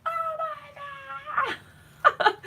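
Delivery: very high-pitched thrilled squeal; excited squeal. Retold or imitated. Crafter relives getting her card published, excited squeal. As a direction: squeal it in overjoyed disbelief. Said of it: "more than pleasantly surprised, it was like".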